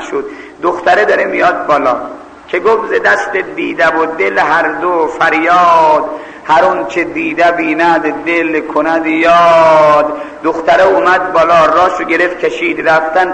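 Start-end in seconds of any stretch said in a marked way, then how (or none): 2.9-10.1 slow, drawn-out couplet; verse recitation. Acted. Preacher quotes a couplet mid-story, slow recitation. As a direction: recite it slowly, lingering on each phrase.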